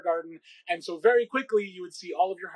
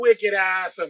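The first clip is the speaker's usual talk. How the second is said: put-on Boston accent; 7 dB louder than usual. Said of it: "Can you do a Boston accent with me?".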